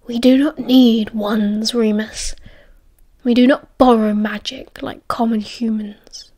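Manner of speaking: lightly voiced slow, haughty werewolf; a measured, breath-edged character voice, disdainful; Castor, haughty wolf.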